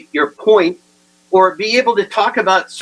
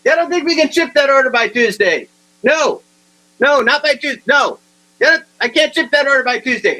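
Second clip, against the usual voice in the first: loud phone talk; 6 semitones higher than usual. Retold or imitated. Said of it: "He's talking real loud".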